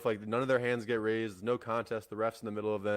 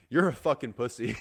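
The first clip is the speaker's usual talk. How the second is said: retold taunt, a bit louder; mild mock yell; 5 dB louder than usual. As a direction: throw out a half-hearted imitated yell. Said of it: "like, screaming at you".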